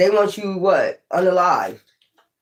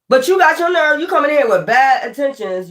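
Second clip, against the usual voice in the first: indignant; 5 semitones higher than usual. Real, not acted. Confronting the accusers.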